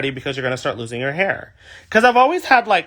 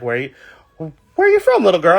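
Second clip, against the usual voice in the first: put-on adult asking a kid; 4 dB louder than usual. Parent asking a girl in line.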